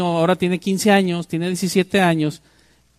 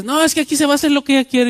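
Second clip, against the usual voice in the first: acted quote; 8 semitones higher, 4 dB louder, much faster than usual. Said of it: "Que llegas tú y dices".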